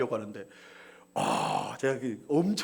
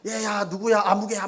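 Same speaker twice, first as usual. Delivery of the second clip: calling out; 5 semitones higher than usual. Retold or imitated. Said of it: "소리 지르면서".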